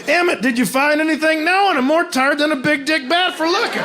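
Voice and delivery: put-on high, twangy old miner voice; old prospector. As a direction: play a crusty old prospector. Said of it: "old prospector lingo".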